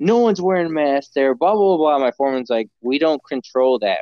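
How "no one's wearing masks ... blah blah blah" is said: mock angry, high-pitched, complaining, ranting yell. Recounting a woman who shouted at their foreman, retelling a woman's yelling. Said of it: "she starts yelling at my foreman saying like".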